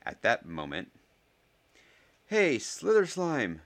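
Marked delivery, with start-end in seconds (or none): 2.2-3.6 slow, high, loud insult; shout. A narrator's reading. Ernie insults the Slytherins, shouting. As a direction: draw out the jeering yell. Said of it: "shouted Ernie".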